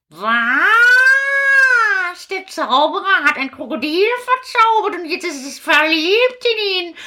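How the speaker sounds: lightly voiced puppet witch, chirpy. Witch greeting Kasperl and the children, lightly voiced. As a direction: play a cheerful fairy-tale witch.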